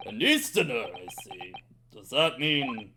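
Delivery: lightly voiced suspicious governor; Armstrong voice. Governor sizing up the Japanese lawyer, a hint of gruffness. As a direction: size up the foreigner with suspicion. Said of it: "my best Armstrong voice for him".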